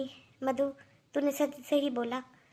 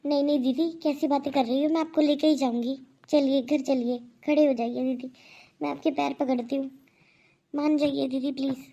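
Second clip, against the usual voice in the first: louder, pleading with her; 4 dB louder than usual. Acted. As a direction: beg her to come home. Mother pleads with aunt. (ननद से ज़ोर से मिन्नत करती भाभी)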